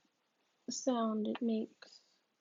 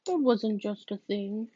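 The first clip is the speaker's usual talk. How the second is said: raised, insistent voice; firm correction; 6 dB louder than usual. Acted. Psychic correcting the clumsy visitor, loud and firm. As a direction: she corrects him sharply, loud. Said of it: "she says".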